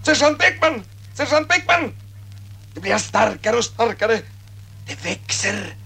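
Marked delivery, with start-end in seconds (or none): 0.0-1.9 repeated crowd shouting. Retold or imitated. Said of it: "skriker de".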